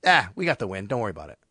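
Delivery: easy, low-key, unhurried; calm reassurance. Retold or imitated. Teammate calming a nervous quarterback, easy and reassuring. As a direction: settle him down without fuss. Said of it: "so calmly just looks at him and goes".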